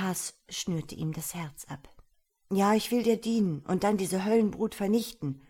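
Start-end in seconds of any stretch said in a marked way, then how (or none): 2.5-5.4 passionate, louder, higher cry; revolutionary orator. A narrator's reading. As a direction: vow revenge with fire. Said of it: "rief er leidenschaftlich".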